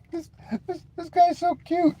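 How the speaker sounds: sarcastic cooing at the tough guy; mock cooing. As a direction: fuss over him like a baby. Cooing at an angry commenter.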